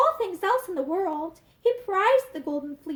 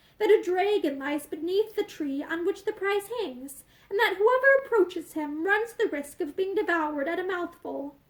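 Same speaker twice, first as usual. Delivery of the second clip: ordinary delivery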